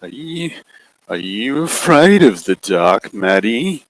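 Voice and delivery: slow, mock-gentle question; sinister coaxing. Shadow figure asking Maddie about the dark, mock-gentle. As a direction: feign concern.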